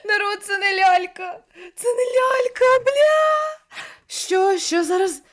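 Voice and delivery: high, loud, crying-out panic; panicked cry. Real, not acted. Streamer shouting to the chat in high panic, crying out. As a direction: shriek it as the horror sinks in.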